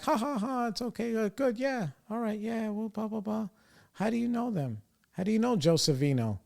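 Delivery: high, soft, fake-cheerful babble; mocking the planner. Mimicking the wedding planner's nervous brush-off, high and soft. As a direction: squeak it out like a flustered planner brushing it off.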